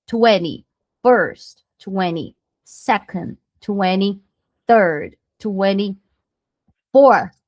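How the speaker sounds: very slow, careful ordinal drill; slow, deliberate teacher drill. Shown as a demonstration. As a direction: say each ordinal slowly for students to repeat. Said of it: "teacher drilling ordinals one by one".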